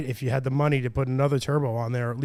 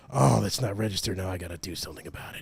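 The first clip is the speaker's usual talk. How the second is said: imitating a cop; 7 semitones lower, 6 dB quieter than usual. Cop quoted, retold.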